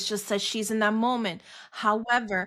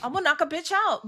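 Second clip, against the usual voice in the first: pitched-up mock threat, imagined rather than said; imagined warning rant; 4 semitones higher than usual. Parent voicing unsaid warning to teens who test her, heated rant. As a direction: lay down a warning you held back. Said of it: "that's how I felt".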